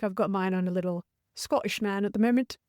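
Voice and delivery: a faint, badly done Scottish accent; half-hearted Scottish accent on a single line. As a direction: slip lightly into a Scottish lilt, not convincing. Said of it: "That was a really bad Scottish accent".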